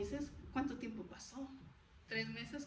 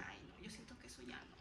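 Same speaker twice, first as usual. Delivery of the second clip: much softer, quicker recalled reaction; hushed aside; 6 semitones lower, 16 dB quieter, faster than usual. Retold or imitated. Recalling own reaction to opossum tamales, hushed aside. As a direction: say it low and fast under your breath. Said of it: "Y yo dije".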